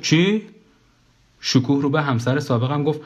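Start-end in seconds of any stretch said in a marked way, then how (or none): 0.0-0.4 higher-pitched puzzled question; surprised. A narrator's reading. Karim answers being asked why he is alive, surprised. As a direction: ask it in mild astonishment. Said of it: "کریم با تعجب گفت".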